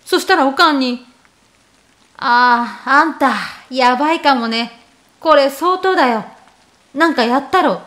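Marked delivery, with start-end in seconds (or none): 2.2-7.8 a hint of a no-nonsense mom sizing him up; mother's stern voice. Mother warning her son, lightly voiced stern mom.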